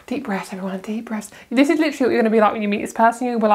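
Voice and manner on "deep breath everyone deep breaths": much softer, settling breath; quiet calming-down voice. Real, not acted. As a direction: soften right down to calm yourself. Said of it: "I need to calm down".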